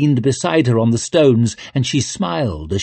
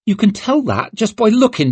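put-on high old woman voice; 11 semitones higher than usual.

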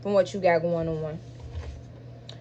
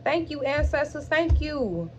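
choked-up thanks; 5 semitones higher, slower than usual. Real, not acted. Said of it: "I'm not gonna get emotional".

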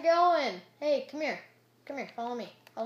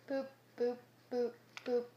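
boop noises; 3 semitones higher than usual. Real, not acted. Imitated noise while placing blocks.

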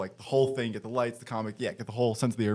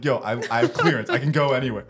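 laughing protest; 4 dB louder than usual. Retold or imitated. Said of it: "And it's like".

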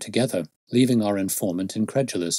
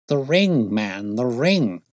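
starts raised, then slows down; emphatic exclamation; 3 semitones higher, 4 dB louder, slower than usual. Acted. Detective answers his puzzled friend, eager emphatic exclamation. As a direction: drive the point home eagerly.

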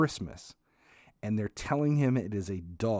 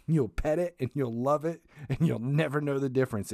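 higher, louder mock mom, bossy; 4 semitones higher, 3 dB louder than usual. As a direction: lay down the law as mom, pitched up. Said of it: "she's like".

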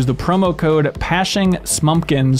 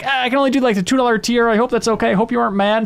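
timid supporter; 7 semitones higher, faster than usual. Retold or imitated. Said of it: "and they're like".

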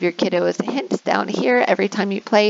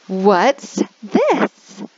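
teacher prompt. Shown as a demonstration. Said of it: "So you can say".

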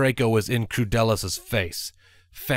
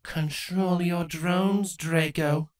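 slow, sneering command; sneering queen; 7 semitones higher, slower than usual. Acted. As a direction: order it slowly, with contempt. Crudalis voice.

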